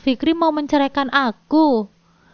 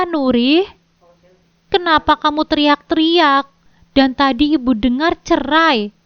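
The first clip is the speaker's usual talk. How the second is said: anxious questions, louder; a mother rushing in, alarmed; worried mother; 3 semitones higher, 5 dB louder than usual. Acted. Mother asking daughter why she is yelling, worried. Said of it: "tanya ibu dengan khawatir".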